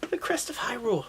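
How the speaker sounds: hushed mysterious whisper; dramatic whisper. Acted. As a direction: breathe it like a big secret. Dramatic reveal of mark.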